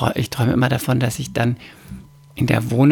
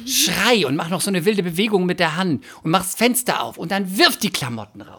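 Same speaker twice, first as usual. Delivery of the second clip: hot-blooded urging; 6 semitones higher than usual. Retold or imitated. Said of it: "mein lateinamerikanisches Blut in mir".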